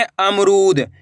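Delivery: syllables joined into one slow word; blended word. Shown as a demonstration. Teacher joining the syllables for learners, slowly blended. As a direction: read it as one whole, stretched word. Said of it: "कैसे पढ़ेंगे?".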